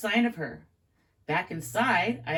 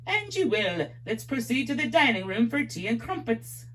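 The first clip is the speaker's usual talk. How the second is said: a light attempt at an English accent; English promoter in a faint British accent; 4 semitones higher than usual. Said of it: "my accent's horrible".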